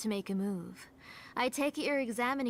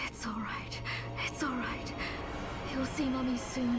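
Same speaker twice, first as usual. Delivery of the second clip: soothing whisper; 3 semitones higher than usual. Acted. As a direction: whisper it to calm a child.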